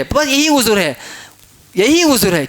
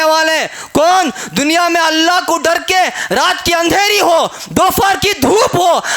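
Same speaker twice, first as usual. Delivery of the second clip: building preaching; 3 semitones higher than usual. Acted. Preacher lists the faithful, building.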